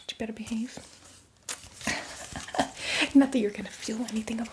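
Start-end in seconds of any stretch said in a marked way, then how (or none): 1.8-3.1 laugh. Acted. Teasing the new zombie.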